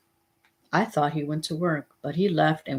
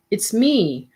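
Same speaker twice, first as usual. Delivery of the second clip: mom yelling; 5 semitones higher than usual. A narrator's reading. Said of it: "Mom yelled".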